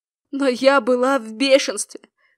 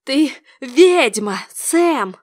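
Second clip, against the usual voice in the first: raised, drawn-out accusation; mild shriek; 4 dB louder, much slower than usual. A narrator's reading. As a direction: cry the charge out, stretching it. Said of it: "завизжала она". (визгливое обвинение)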